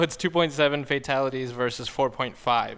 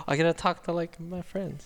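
mildly excited, slightly higher pitch; 3 semitones higher than usual. Retold or imitated. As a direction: look forward to seeing friends. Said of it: "I get so excited now".

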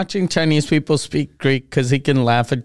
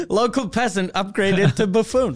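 chuckling through the words; laughing; 4 semitones higher than usual. Real, not acted. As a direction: laugh while announcing the upgrade. Laughing at the insult.

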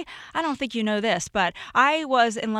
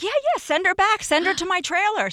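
cheery actor; 9 semitones higher than usual. Retold or imitated. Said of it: "he was like".

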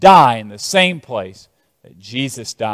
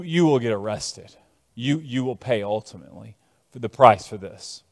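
grave warning; 6 semitones lower, 8 dB quieter than usual. Acted. Prophet's grave warning after encouragement.

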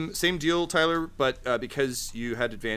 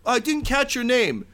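high character voice; 14 semitones higher, 4 dB louder than usual. Acted.

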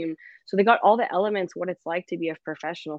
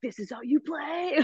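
laughing boast; 10 semitones higher, 5 dB quieter than usual. Retold or imitated. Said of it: "I'm like".

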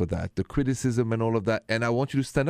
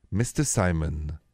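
low, slow and measured summons; deliberate, low-pitched parental reprimand without yelling; slow disciplining dad; 6 semitones lower, slower than usual. Retold or imitated. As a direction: imitate a dad calmly disciplining, very slowly. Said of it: "start to talk very slowly".

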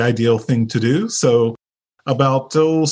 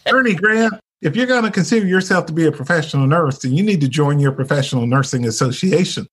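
put-on Southern accent; 3 semitones higher than usual. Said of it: "in her nice little Southern voice".

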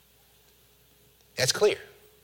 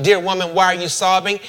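slightly raised professional phone voice; a hint of code-switched formality; white-person phone voice; 4 semitones higher, 4 dB louder, faster than usual. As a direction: lightly put on a formal telephone manner. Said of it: "his white person on the phone voice".

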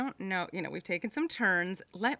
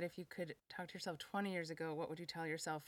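softer, hushed interviewer gravitas; James Lipton; 10 dB quieter than usual. Pretend. Host posing the question in a hushed, solemn interviewer voice. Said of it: "I'll do a little James Lipton".

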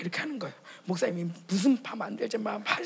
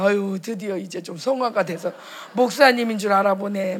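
loud, pleased exclamation; a pastor's wife delighted to be recognized; gleeful delight; 9 dB louder than usual. Retold or imitated. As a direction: gush with satisfaction that they noticed.

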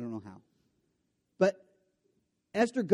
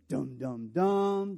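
dramatic dum dum; much slower than usual. Retold or imitated. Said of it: "the Hebrew says".

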